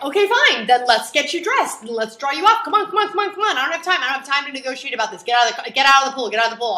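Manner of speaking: put-on high, loud, rushed orders to a stalling kid; hurried, exasperated mum. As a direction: hurry the kid out of the pool, no time for discussion. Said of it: "So now I'm like".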